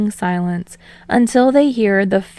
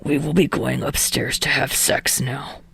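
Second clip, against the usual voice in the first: deadpan; 5 semitones lower, 4 dB quieter than usual. Acted. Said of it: "Katsuki deadpans".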